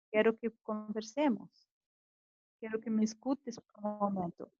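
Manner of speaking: composed, non-confrontational appeal; calm correct tone. Shown as a demonstration. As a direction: ask calmly for a moment to talk. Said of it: "falaste no tom correto".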